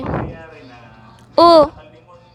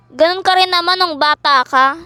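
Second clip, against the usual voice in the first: ordinary delivery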